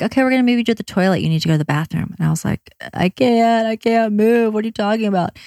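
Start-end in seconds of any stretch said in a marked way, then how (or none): 0.0-2.1 brisk midwife. Retold or imitated. Midwife voiced in birth story. 2.9-5.4 higher, strained mock panic; panicked protest. Mother in labour refusing to move, strained and higher.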